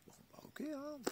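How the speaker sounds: barely voiced, resigned okay; whispered reply. Answering the cashier in a resigned whisper. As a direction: breathe it out under your breath. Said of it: "je lui fais".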